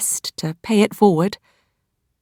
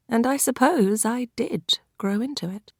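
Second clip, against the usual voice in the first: wry whispered aside; soft whispered afterthought; 4 semitones higher, 8 dB quieter than usual. A narrator's reading. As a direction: drop to a whisper for the confession.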